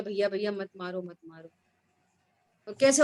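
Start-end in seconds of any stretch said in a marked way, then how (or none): 0.0-1.5 softly pleading, fading to almost nothing; a hushed, fading plea to spare the creature; mock pleading. Preacher imitating a plea to stop a killing, hushed. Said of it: "तो हम बोले".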